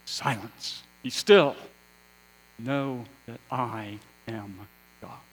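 firm command, loud burst on "still"; divine command. Acted. God to the rebel nations in turmoil, firm command. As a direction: order the turmoil to stop, hitting "still" hard. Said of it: "It is God saying to the rebel nations".

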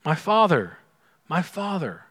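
tender cry. Retold or imitated. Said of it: "What does he say?".

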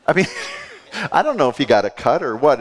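quick, laughing aside; laughing it off while speaking quickly. Real, not acted. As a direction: chuckle through the joke about the doctor. Joking about the doctor.

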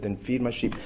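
softly spoken, tender instruction; gentle. Retold or imitated. Preacher voicing Jesus sending Peter out, gently. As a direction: say it quietly and kindly. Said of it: "he does it in gentleness".

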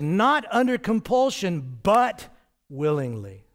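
"Not" hit high and loud against "willingly"; strong contrast. Shown as a demonstration. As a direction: set not against but firmly. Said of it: "Stro-, strong contrast".

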